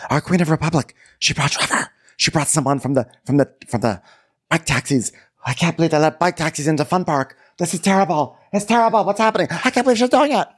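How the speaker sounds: rising, high scandalized gasp; building from high gossip to shrill scandalized outrage; mock outrage. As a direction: act shocked and appalled, climbing. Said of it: "everyone's like".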